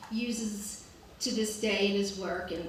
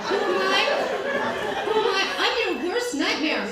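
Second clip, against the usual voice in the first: louder, higher hammed-up threat; mock fury; 8 semitones higher, 6 dB louder than usual. Storyteller imagining her cutting reply to the rude guest, mock menace. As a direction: play the fantasy tough-guy comeback.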